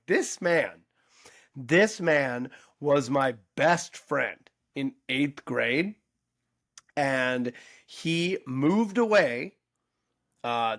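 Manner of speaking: re-enacted speech to a crowd, with big pauses; addressing an audience. Telling the backyard audience about a lost friend, addressing a crowd. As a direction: announce it slowly and deliberately, pausing between phrases. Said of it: "I addressed the audience".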